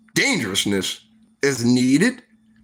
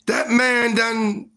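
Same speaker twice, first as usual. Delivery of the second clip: mock awed whisper-gasp, pitch up high; wide-eyed storyteller telling about Hacksaw, awed and hushed; retold awe; 6 semitones higher, much slower than usual. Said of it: "He said".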